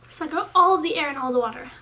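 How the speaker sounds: speaking around plastic tray; tray held at teeth. Real, not acted. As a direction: lips touching aligner edge. Seen 0: Clear tray held against lips and teeth while speaking.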